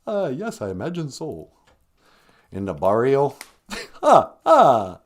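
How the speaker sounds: the Count guessing about the barrio. Acted. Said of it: "the Count".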